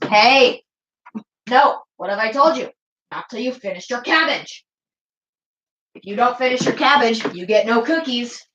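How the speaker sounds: half-hammed parent telling off a kid; mock parent scolding. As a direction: scold like a strict mum at dinner. Parent scolding over cabbage.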